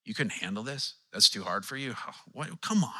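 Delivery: mock dismissive. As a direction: sneer at someone's weakness, lightly. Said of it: "he's not listening, shaking his head like".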